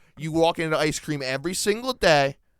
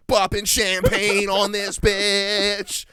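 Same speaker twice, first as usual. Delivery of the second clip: mock party whoop; 5 semitones higher, much slower than usual. Mocking a party girl.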